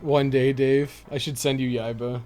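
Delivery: usual speaking voice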